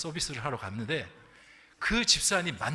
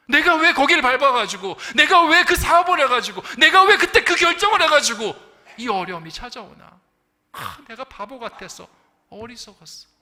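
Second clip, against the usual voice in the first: loud, much higher cries of regret that fall away; anguished self-blame; 8 semitones higher, 14 dB louder than usual. Retold or imitated. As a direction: cry out each 왜 then sink into the last words. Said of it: "사람들은 이렇게 이야기합니다".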